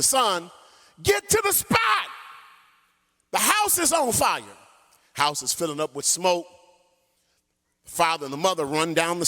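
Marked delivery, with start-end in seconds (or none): 1.0-4.6 panicked shout. Retold or imitated. Parents warning their children of fire, shouting. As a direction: scream it up the stairs in panic. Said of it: "screamed to the daughter".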